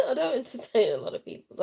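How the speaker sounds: laughing through the repeat; quick laughing restatement. Real, not acted. Laughing repeat of own line.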